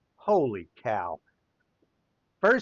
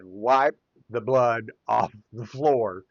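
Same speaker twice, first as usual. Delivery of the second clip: slow, giggling through the words; 3 semitones lower, 4 dB louder, slower than usual. Retold or imitated. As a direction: let a giggle slip into the order. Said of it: "with a giggle in his, in his tone".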